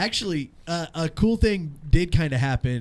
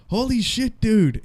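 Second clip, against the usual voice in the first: excited fan; 8 semitones higher, 5 dB louder than usual. Retold or imitated. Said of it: "He's like".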